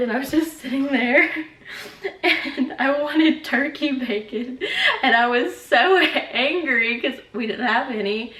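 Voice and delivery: giggling through the words; laughing. Real, not acted. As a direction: laugh while telling it. Laughing retelling turkey bacon craving.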